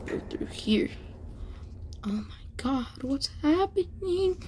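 hushed breathy whisper. Real, not acted. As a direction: whisper it like sneaking past. Sneaking through door.

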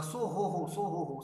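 hollering in a sleeping man's ear; mock shout. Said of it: "going near his ears and shouting".

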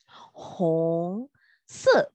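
红色 whispered. Shown as a demonstration. Teacher models word softly.

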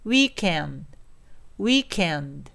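"weekend" strong at the front, the final d unvoiced and swallowed. Shown as a demonstration. Teacher shows how it sounds, "weekend" with swallowed D. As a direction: let the end of "weekend" fade away. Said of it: "声が飲み込まれちゃうんですね".

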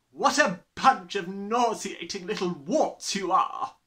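loud, high, slow scorn; contemptuous insult. A narrator's reading. Headmistress insulting the small children, contemptuous. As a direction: hurl it at them with slow, loud disgust.

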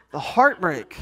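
a real chuckle through the words; laughing. Real, not acted. Pastor to congregation laughing at his own lament. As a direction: repeat it laughing at yourself.

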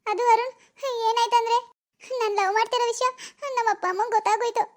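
acted weepy confession; tearful. Girl telling her boyfriend they were found out, tearful. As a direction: talk through held-back crying, halting between phrases. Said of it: "ಅಳದ್ ನಿಲ್ಸ್ಬಿಟ್ಟು ಹೇಳು".

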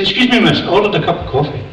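a hint of a politely complaining customer; polite passenger. Passenger reminding the air hostess of his order, mildly insistent. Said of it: "The guy says".

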